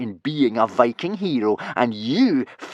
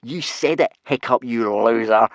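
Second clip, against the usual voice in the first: crowing; 2 semitones higher, 5 dB louder than usual. Acted. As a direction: crow over the loser, drawing out the insult. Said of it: "crowed Snotlout".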